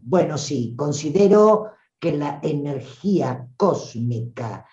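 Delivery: measured, serious lecturer's tone; mock-serious academic explanation. Shown as a demonstration. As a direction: sound earnestly academic and never let it drop. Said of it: "no para de ser seria y académica".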